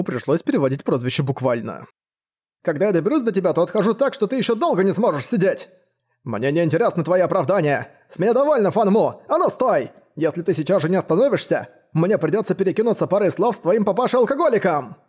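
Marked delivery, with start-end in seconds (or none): 2.6-5.7 high, raised angry threat. Acted. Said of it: "гневные крики". 6.2-15.0 high scolding shout; angry shouting. Acted. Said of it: "гневные крики".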